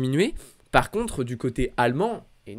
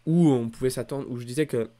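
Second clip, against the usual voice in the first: lisp. Real, not acted. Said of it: "j'ai un cheveu sur la langue".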